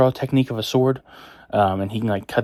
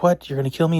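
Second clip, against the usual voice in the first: shocked; 8 semitones higher, faster than usual. Retold or imitated. Brooks told he'll be killed.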